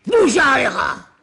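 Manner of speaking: slow, drawn-out yell; slow shouted repeat; mock shout. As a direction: bellow it like an angry father-in-law. Laban's angry phrase, slow shout.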